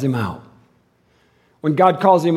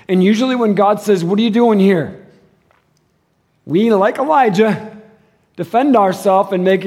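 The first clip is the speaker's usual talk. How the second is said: firm preaching; 2 semitones higher, 4 dB louder than usual. Acted. Preaching loud question.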